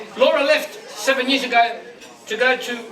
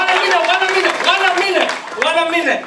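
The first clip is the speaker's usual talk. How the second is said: calling out; 5 semitones higher, 4 dB louder than usual. Real, not acted. Calling for a pause at party.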